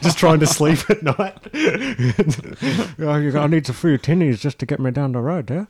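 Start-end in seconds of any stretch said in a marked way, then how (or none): 3.0-5.6 lightly put-on Aboriginal Australian accent, begging; a hint of a caricatured Aboriginal Australian accent; mock racist accent. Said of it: "speaking of racist, uh, accents".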